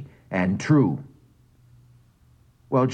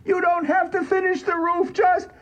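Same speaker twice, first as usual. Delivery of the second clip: much higher pleading whine; whining piteously. A narrator's reading. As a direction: beg him to leave, pitifully. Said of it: "whining piteously".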